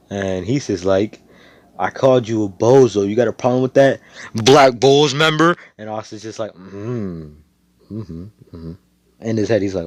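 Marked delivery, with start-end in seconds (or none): 1.8-5.6 villain taunting the Black Bulls member; mock taunt. 6.5-8.7 tags 1. Acted. Hero holding anger back.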